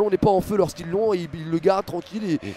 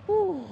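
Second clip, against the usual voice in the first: very high, soft "oh"; astonished "oh"; 13 semitones higher, 4 dB quieter than usual. Real, not acted. Commentator stunned by match's ending, soft high exclamation. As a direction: let out a small high cry of disbelief.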